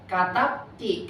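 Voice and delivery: "katab ti" said slowly, ending ti clearly marked; slow model reading. Shown as a demonstration. Teacher slowly modelling "katab ti" for students. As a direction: stretch out "katab ti" so the ti is heard. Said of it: "kamu perempuan nulis".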